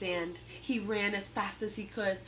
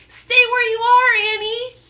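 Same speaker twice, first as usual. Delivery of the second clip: high, loud warning shout; 14 semitones higher, 16 dB louder than usual. Acted. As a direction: order her to stay put. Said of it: "Jack shouted".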